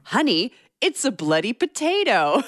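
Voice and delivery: mock Kiwi husband voice for the discovery; New Zealand accent. Retelling the gardener's potato find, light New Zealand accent. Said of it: "Just imagine a New Zealand accent here".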